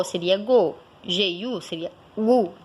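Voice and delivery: teacher contrasts hard G syllables; sound demo. Shown as a demonstration. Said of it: "se a gente tivesse".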